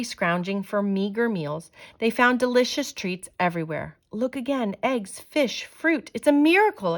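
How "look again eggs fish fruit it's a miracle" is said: much higher, rising wonder; amazed exclamation. Acted. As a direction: marvel at sudden food everywhere. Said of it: "exclaimed Mama".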